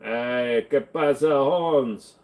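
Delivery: light mock Mexican accent; casual put-on Mexican accent. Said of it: "do a good Mexican accent".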